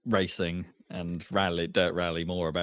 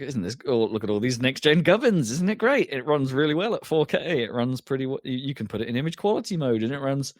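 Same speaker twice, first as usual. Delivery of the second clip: mock over-the-top enthusiastic praise; gushing; 5 semitones higher than usual. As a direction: gush like an overexcited reviewer. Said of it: "I was like".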